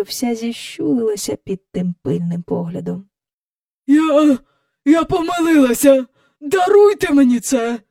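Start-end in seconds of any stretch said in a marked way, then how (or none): 3.9-7.8 mumbling plea. A narrator's reading. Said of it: "мимрила міс Ендрю".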